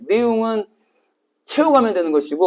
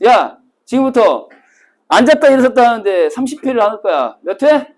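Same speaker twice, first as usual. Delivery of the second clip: barking drill commands, a touch louder; drill sergeant; 3 semitones higher, 4 dB louder than usual. Retold or imitated. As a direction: order the class like a drill instructor. Drill instructor commands retold.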